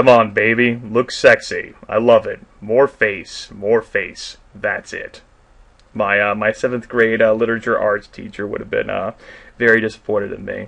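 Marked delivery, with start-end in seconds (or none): 0.0-5.2 emotionless, flat, machine-like robotic monotone. Reading lines aloud for someone, totally robotic with no emotion. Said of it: "I'm going to read this totally robotic".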